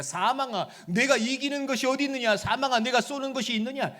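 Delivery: loud, commanding taunt at death; scolding rebuke. Retold or imitated. Paul rebuking death, scolding and commanding. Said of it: "호통치듯이 얘기하는 거예요".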